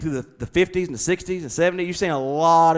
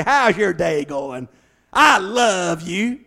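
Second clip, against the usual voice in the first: tender greeting; 2 semitones higher, 5 dB louder, much slower than usual. Pretend. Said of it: "give them a big old bear hug and say".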